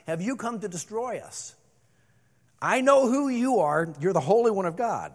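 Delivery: demon crying out. Acted. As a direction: shout it like a cornered demon. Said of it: "So he cried out".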